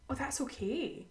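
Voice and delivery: hushed, easy reassurance; soft reassurance. Retold or imitated. Friend calming the stressed cook, softly reassuring. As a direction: let them off gently and softly.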